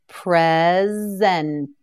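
drawn out slowly, each sound held; Present. said long and slow for repeating; slow stretched model word. Shown as a demonstration. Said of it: "You try it".

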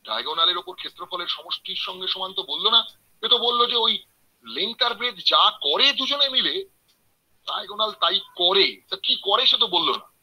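mildly voiced puzzled objector; sceptical objection. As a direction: push back like a doubting listener. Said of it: "আপনি ভুরু কুচকোতেই পারেন". (সামান্য সন্দেহভরা আপত্তির সুরে)

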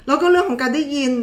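laughing. Real, not acted. Laughs through next topic.

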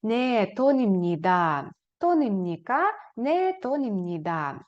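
Не тонімніда falls, тонімніка rises; falling answer then rising question. Shown as a demonstration. Teacher contrasts answer and question tunes for students. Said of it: "інтонацію навпаки трошки опускаємо вниз".

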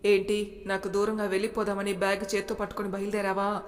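stern, measured question; serious tone. Acted. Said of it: "RK voice సీరియస్గా". (భర్త భార్యను నిలదీస్తూ, సీరియస్గా)

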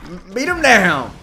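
high, loud hype yell; rowdy cheering, drawn out and loud; excited shouting. Real, not acted. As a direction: egg on a fighter at the top of your voice. Cheering on the on-screen fight.

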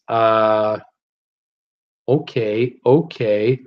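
words stretched by a yawn. Real, not acted. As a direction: talk through a yawn. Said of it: "Oh, I'm yawning".

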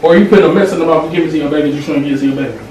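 loud, fast accusing rant; heated lecture. Acted. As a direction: lecture her hard. Lecturing partner about mints.

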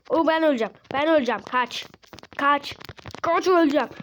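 panicked. Real, not acted. Oyuncu karakteri ölecek diye panikle bağırıyor. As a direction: cry out in gamer panic. Panic about dying in game.

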